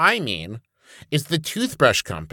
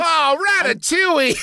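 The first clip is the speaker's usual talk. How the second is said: high, laughing French shout; french chef; 12 semitones higher than usual. Pretend. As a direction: ham up a French cry. Mock French exclamation, laughing.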